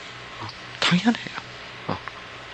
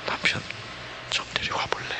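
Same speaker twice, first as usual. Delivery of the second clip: much softer, near-whispered gentle question; tender plea; 14 dB quieter than usual. Shown as a demonstration. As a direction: ask it with tears in the eyes. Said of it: "아마 눈물이 걸성거렸을 겁니다". (눈물 머금은 듯 부드럽고 조용하게)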